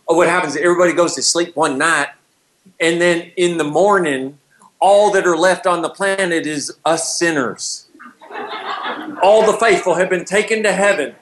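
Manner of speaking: mock Southern rapture storyteller, slowing for effect; hammed-up Bible Belt accent; Southern preacher accent. Retells rapture film in mock Southern voice.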